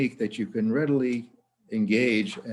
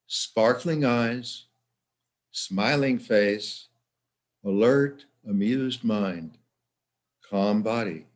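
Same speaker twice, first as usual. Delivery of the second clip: slow, spaced-out mantra phrases; relaxation mantra; slower than usual. Shown as a demonstration. Psychologist giving listeners words to repeat to themselves, slow mantra. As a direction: let each short phrase stand alone, drawn out slowly.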